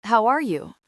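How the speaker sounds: a loud, pushy demand, up in pitch; aggressive. A narrator's reading. Mother confronting her son Ravi, aggressive and loud. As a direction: snap the question at him like a challenge. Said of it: "rather aggressively".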